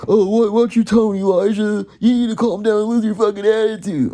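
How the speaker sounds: hammed-up indignant scolding; mock scolding relative. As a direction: imitate a relative telling you off, loud and high. Mimics relative scolding him in argument.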